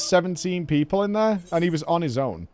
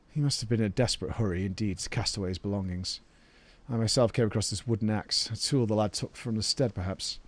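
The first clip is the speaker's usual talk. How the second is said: low, soft character voice; game character; 7 semitones lower, 9 dB quieter than usual. Acted. Searcher reporting the lad's belongings, low quiet role. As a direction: report the clue gravely and quietly.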